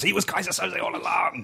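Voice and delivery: hushed, secretive reveal; dramatic whisper. Acted.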